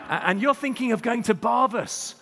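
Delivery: put-on wife scolding in a light accent; lightly accented Hebridean wife. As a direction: slip back into the islander's accent. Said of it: "it's come back".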